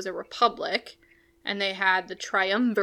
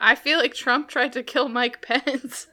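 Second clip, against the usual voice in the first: laughing; 3 semitones higher, 4 dB louder than usual. Real, not acted. Joking about Trump, both laughing.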